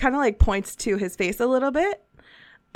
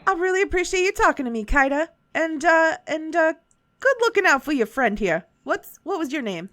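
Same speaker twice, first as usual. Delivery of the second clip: put-on a light Southern shopkeeper accent; 3 semitones higher than usual. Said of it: "It just continues to go Southern".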